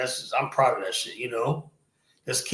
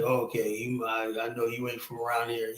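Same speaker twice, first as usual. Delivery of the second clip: meek retreat; 3 semitones lower, 8 dB quieter than usual. Retold or imitated. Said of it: "he looked at me like".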